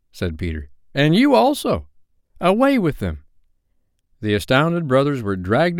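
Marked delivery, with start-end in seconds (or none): 0.9-3.2 put-on high, forceful boy leader; commanding and high-pitched; imperious order. A narrator's reading. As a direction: dismiss them with a command. Peter commands brothers be taken away.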